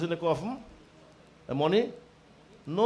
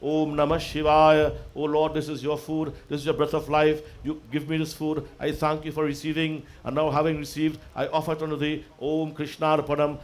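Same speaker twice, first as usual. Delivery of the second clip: food offering prayer; 3 semitones lower than usual. Shown as a demonstration. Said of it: "If I have to say".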